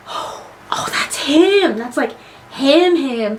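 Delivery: hushed, breathy fan reaction; awed whisper. Retold or imitated. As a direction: whisper it as if just spotting a hero. Reliving first sight of Vader.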